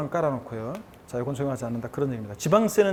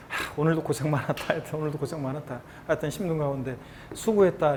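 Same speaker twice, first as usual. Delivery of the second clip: softer, lightly acted self-comfort; 위로하는 말투; 4 dB quieter than usual. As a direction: gently acknowledge your own hard work. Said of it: "수고의 말을 좀 건네세요". (스스로를 다독이는 부드러운 말투)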